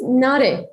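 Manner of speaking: "Nare" said slowly, two syllables, NAH-reh; "Nare" pronounced the Armenian way, unhurried; own name said clearly. Shown as a demonstration. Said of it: "how can I say your name in, uh, in the correct accent".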